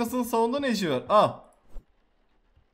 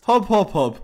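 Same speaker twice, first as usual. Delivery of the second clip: bouncy hop sounds; 6 dB louder, slower than usual. Pretend. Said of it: "repeated bouncing sound".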